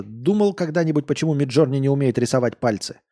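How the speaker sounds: put-on near-plain reread of the drunk line; a calmer, barely drunk retake; lightly voiced drunk. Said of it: "Он пьяно посмотрел".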